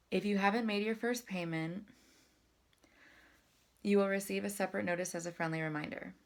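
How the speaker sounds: whole sentence on one full breath; one deep breath. Shown as a demonstration. Showing viewers one breath for the whole line. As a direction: fill your lungs first, then run the sentence through. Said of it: "I took such a deep breath for the first part".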